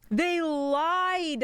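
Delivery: high, loud indignant yell; frustrated shout. Real, not acted. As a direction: shout at the game in disbelief. Game blocks move, frustrated shout.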